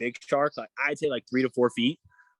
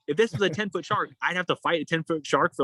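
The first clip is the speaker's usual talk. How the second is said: raised-pitch retold protest; incredulous complaint; 5 semitones higher than usual. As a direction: complain to the crew in disbelief. Acted complaint to boat crew.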